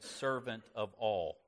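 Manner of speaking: slow, weighted "servant of all", leaning on "all"; emphasis on ALL. Shown as a demonstration. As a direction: draw out "all" to stress it. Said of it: "I would emphasize".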